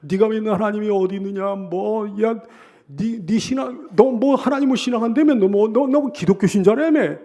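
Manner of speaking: acted enemy's mockery; mocking taunt. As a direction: needle a believer about their God. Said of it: "그래 막 조롱하고 그러는 거예요".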